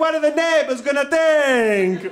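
sudden put-on Italian accent, "think" stretched out. Retelling what a woman really from Brooklyn said, Italian accent. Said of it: "she gets like an Italian accent out of nowhere".

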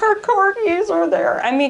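very high voice, crying through sobs. Describing the horse and corgis on the lawn, through sobs.

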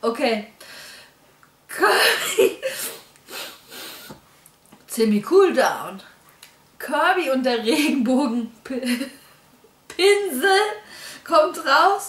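holding back laughter. Announcing a new Kirby game after a laughing fit, trying not to laugh. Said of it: "Ich darf mich jetzt nicht einlachen hier".

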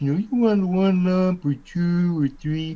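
goofy cartoon voice, very high-pitched and loud. A voice actor demonstrating the Looney Tunes character he voices, in his Pete Puma voice. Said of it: "he kind of sounds like this".

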